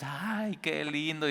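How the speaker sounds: high, soft cooing ay qué lindo; mock-touched, breathy-sounding delight; mock sweet delight. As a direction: coo like someone charmed by a nice saying. Naive listener again.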